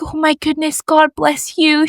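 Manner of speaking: touched blessing, lightly acted; happy, moved. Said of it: "she was so happy that I said".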